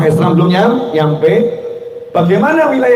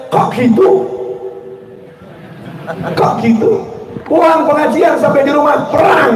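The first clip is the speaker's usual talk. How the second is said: upset wife; 7 semitones higher than usual. Retold or imitated. Wife reacts angrily to text.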